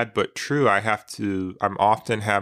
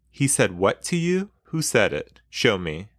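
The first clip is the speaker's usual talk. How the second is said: demanding. Acted. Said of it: "I demanded".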